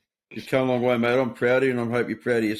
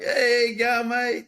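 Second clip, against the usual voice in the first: mock yell; 13 semitones higher, much slower than usual. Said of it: "He's like".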